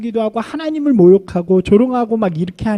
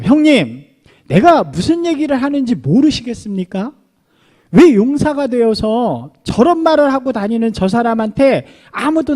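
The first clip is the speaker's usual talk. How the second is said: fervent rebuke; 4 semitones higher, 4 dB louder than usual. Retold or imitated. David rebuking his older brother.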